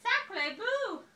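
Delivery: high and loud mock French cry; high, loud cry of surprise; high duck cry. A narrator's reading. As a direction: squawk it high like a shocked duck. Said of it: "she cried".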